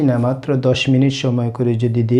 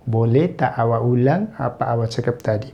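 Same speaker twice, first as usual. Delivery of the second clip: slow demo; 4 dB quieter, much slower than usual. Shown as a demonstration. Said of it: "teacher repeats Malay phrase".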